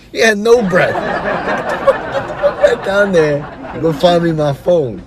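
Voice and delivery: high, laughing mock rant; laughing through it. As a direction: laugh the words out in disbelief. Laughing while retelling his outburst.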